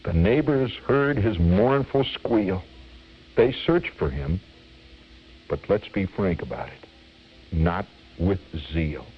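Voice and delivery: measured, rhythmic verse recital; comic poem reading. Acted. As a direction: relish each rhyme of a mock cautionary tale.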